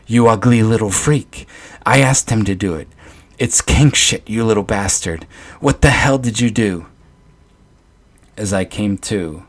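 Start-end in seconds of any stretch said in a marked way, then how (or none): 0.1-6.8 loud, higher shrieking mother; mother shrieking at her son over the body. Acted. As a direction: shriek at the boy in horror. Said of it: "my mother's shrieks".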